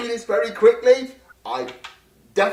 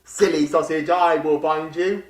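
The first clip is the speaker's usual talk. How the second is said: taunting monster voice; 5 semitones lower than usual. Acted. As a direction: tease the hider like a lurking reaper. Reaper taunting hider.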